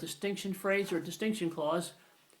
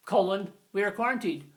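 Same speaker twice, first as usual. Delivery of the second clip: stilted spoken colon; 4 dB louder than usual. Shown as a demonstration. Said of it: "you don't say".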